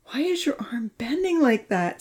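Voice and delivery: high-pitched anxious question; fretting. A narrator's reading. Santa stares at Charlie's arm in tears, fretting. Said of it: "Santa fretted".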